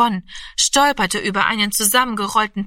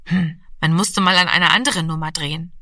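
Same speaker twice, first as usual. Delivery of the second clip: usual speaking voice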